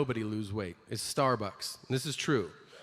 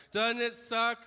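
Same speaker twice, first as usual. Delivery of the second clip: infomercial pitchman; 6 semitones higher, slower than usual. Retold or imitated.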